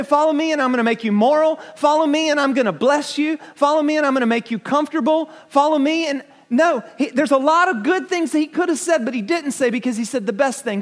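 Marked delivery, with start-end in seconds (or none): 0.0-6.2 mock quotes.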